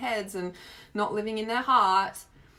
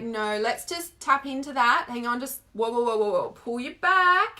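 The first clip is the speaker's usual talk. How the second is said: retold coaching interruption; 2 semitones higher, 4 dB louder than usual. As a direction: stop the client kindly but firmly, then haul her back. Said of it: "I was just like".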